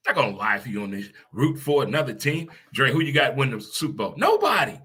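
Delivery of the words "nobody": high, loud flat refusal; emphatic nobody. Real, not acted. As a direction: spit it out as a final answer. Answers Dre emphatically.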